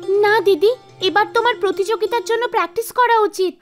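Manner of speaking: put-on high, quick child voice; lightly voiced child, urging; little girl. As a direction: insist like a concerned little pupil. Child pupil objects to teacher.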